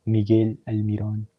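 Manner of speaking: Miguel Almiron said with a Spanish accent. Shown as a demonstration. Streamer who doesn't speak Spanish tries the name, Spanish accent. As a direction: try the name with Spanish pronunciation. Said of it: "That's a good accent right there".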